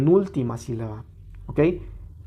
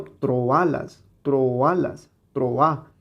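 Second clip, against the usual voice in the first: "troalas", "troa" with the A stressed, separate from "tro"; stressed hiatus; much slower than usual. Shown as a demonstration. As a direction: repeat "troalas" deliberately, leaning on the first A. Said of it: "ese acento prosódico está separando estas sílabas". ("troalas, troa" con hiato y la A acentuada)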